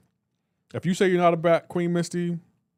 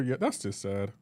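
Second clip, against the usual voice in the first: much lower and softer, deflated; mock pitying sigh; 8 semitones lower, 8 dB quieter than usual. Real, not acted. Judging chat's answer, low deflated pity. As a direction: let it sink in pity. Disappointed verdict.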